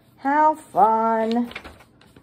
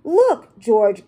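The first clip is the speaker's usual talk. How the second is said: lightly voiced Peppa gasping; 4 dB louder than usual. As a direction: gasp it out as Peppa. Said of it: "gasped Peppa".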